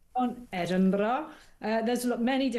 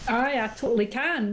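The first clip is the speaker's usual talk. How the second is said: put-on Scottish accent. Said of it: "doing Scottish".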